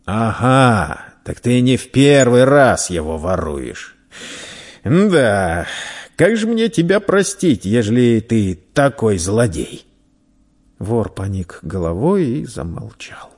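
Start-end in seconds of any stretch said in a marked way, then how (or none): 0.1-9.9 knowing merchant. Acted. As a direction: catch the boy out, mock-reproachful. Merchant catches the boy out.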